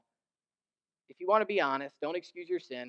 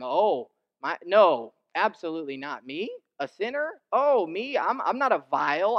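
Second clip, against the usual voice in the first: mock indignant denial; 2 semitones higher, 6 dB louder than usual. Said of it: "people do that with their sin".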